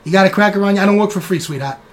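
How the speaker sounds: streetwise New York rat haggling for crackers; New York wiseguy rodent bargaining. Acted. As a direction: play a pushy little rat who won't work for free. GM voices the rat NPC.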